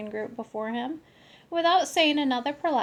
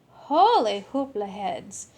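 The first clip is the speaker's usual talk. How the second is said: holler; 5 dB louder than usual. Acted. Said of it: "hollered Scipio".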